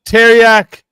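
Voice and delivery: high, loud announcer shout of the name; announcer call. Real, not acted. Host calls out a contestant's name.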